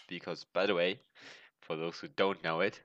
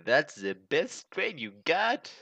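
art teacher voice; 8 semitones higher, 4 dB louder, slower than usual. Retold or imitated. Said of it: "and he will be like".

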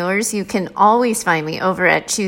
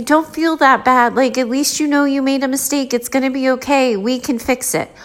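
mock reassurer; 5 semitones higher than usual. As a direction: mimic the people who rush in to soothe. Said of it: "everybody wants to rush in and say".

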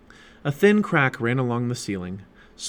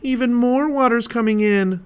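high, loud cry of alarm; 12 semitones higher, 5 dB louder than usual. A narrator's reading. Annie to Jack as the sub floods, alarmed. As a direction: call out the danger in a raised voice.

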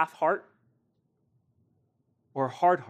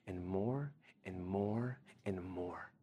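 hushed whisper, slowing down; breathy drawn-out whisper of more and more; 6 semitones lower, 13 dB quieter, slower than usual. Real, not acted. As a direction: let the repeats fade into a whisper. Preacher repeating promise softly.

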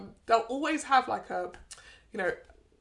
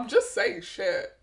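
deadpan model voice; 9 semitones higher, slower than usual. Pretend. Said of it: "I'd be like".

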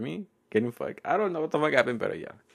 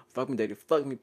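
lightly imitated moan, near usual pitch; half-hearted replay of a moan; mock moaning. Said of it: "I was moaning really fucking loud".

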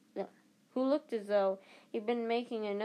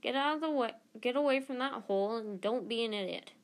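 exploding at Neville; 3 semitones higher than usual. Acted. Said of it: "Ron exploded".

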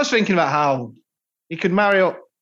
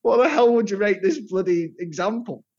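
laughing at own joke; 3 semitones higher than usual. Real, not acted.

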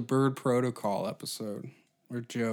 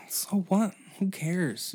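dismissive; 7 semitones higher, slower than usual. Real, not acted. Ranting dismissively.

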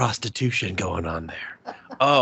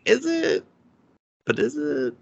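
high, skeptical sarcasm; sarcastic doubt; 5 semitones higher than usual. Retold or imitated. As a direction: question it with mock doubt. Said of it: "was like".

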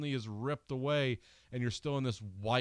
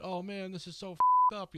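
high, louder mock distress; hammed-up outburst, pitched way up; vocalized panic; 10 semitones higher, 6 dB louder than usual. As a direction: imitate a movie character losing it. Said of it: "No one's vocalizing any".

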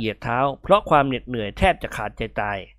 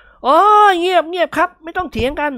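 loud shout; 5 dB louder, slower than usual. Acted. Guest deafened by arguing hosts, shouting for silence. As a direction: bellow to silence the squabbling. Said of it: "แหกปากร้องตะโกนขึ้นดังๆ".

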